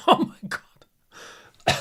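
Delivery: breathless gasp. Real, not acted. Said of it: "Jesus Christ".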